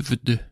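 "w d" with no full vowels; consonants only. Shown as a demonstration. Teacher shows woda written without vowels, bare consonant sounds. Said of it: "zapisano by tylko głoski".

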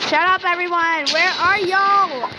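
loud, high frightened calls; scared yelling. Real, not acted. Alone in the dark, calling for friends, scared yell.

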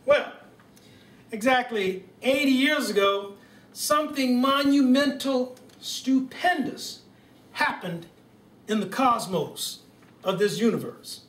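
mild presidential speech voice with stately pauses; Barack Obama impression. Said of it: "Thank you, Barack".

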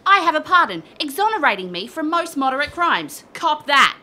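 loud, high gleeful boast; cocky, loud crowing; triumphant defiance. Acted. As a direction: rub it in his face. Defiant boast after assault.

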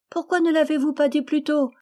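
put-on high, loud, gleeful child's voice; a relieved child, light with joy; high joyful child; laughing little girl. A narrator's reading. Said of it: "fit-elle avec un rire joyeux".

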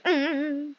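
demonstrating an odd hum; odd wordless humming sound; weird hum. Shown as a demonstration. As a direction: make a weird little mm noise. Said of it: "I'm making these weird sounds, like".

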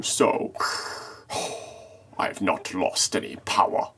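slow, heavy Vader voice with breathing sighs; a hint of a weary Sith lord; slow and ponderous, ending in a soft breathy sigh; Darth Vader voice. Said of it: "Here we have Darth Wookiee".

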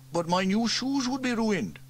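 lightly voiced, stammering reluctance; offer, then back off; reluctant fireman. Elvis half-volunteers, reluctantly.

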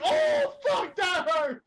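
high, yelping mock agony; pained Satan. Retelling Satan hurt in the sketch, mock pain. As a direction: act out a sudden painful yelp. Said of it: "he's like".

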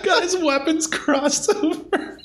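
high giggling words; laughing. Real, not acted. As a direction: laugh through the line. Giggling at joke.

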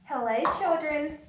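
sweet voice. Acted. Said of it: "someone said in a sweet voice".

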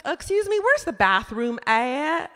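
high opening, slowing to a stretched question; restaurant lady. Acted. Lady asks comic for directions, lightly mimicked high voice. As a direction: lightly voice a lady asking politely, high then drawn out. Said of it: "She's like".

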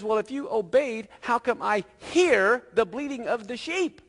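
high, pointed comeback; acted-out confrontation; Samuel's challenge. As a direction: challenge the excuse, slowing to make the point. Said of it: "And Samuel says".

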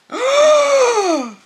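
loud, high-pitched gasp; amazed gasp. Real, not acted. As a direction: gasp sharply in delighted shock. Sees the rare plant.

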